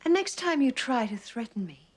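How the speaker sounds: angry threat. Acted. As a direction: snap the warning at her. Threat rising out of whisper.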